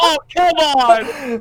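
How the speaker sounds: slow loud dismay; frustrated groan. Real, not acted. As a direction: drag it out, stunned by loss. Losing game moment.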